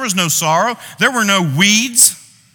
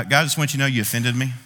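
quick, lower, under the breath; mock complaint to God; 5 semitones lower, 3 dB quieter, faster than usual. Preacher voicing someone scolding God, quick and hushed. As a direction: rattle it off like a sulky accuser. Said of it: "can you imagine saying to God".

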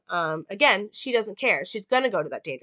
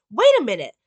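desperate Karen; 8 semitones higher, 3 dB louder than usual. Retold or imitated.

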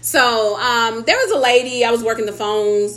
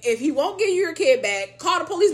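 higher, fed-up mock rant with a laugh; exasperated; 7 semitones higher than usual. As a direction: vent at the caller, half laughing. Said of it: "I'm like".

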